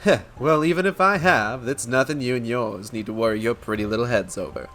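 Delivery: lightly voiced rogue vouching for his friends; easygoing put-on street-wise voice; roguish wolf, reassuring. Wolf vouches for the outcasts, lightly roguish and reasonable.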